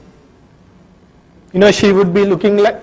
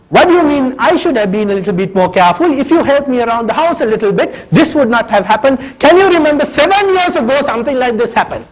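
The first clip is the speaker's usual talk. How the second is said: indignant retort; 5 semitones higher than usual. Pretend. Wife fires back at husband.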